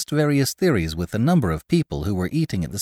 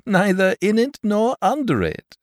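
laughing; 11 semitones higher than usual. Acted. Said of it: "who was still laughing".

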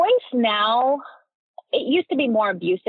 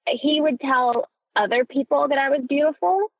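tearful; 5 semitones higher than usual. Real, not acted. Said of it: "it's making me cry".

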